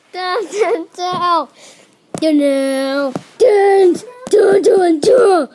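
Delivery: full-volume, high chant-like yelling; shouting repeatedly. Pretend. Kid at play yelling down over and over, shouting.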